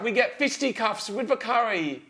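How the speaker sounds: exaggerated English accent. Host ending his night-out tale in a mock English accent. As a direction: ham up the bad English accent. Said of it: "Can't I do an English accent".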